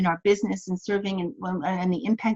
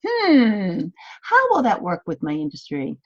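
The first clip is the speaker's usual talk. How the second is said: curious hmm; slower than usual. Shown as a demonstration.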